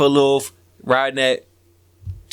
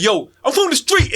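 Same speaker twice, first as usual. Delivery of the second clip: imitating a hype man; 9 semitones higher than usual. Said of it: "Dude say, like".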